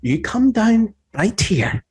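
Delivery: high Southern command; old Southern woman. Acted. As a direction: order him down like a Southern mama. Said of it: "that old Southern woman voice".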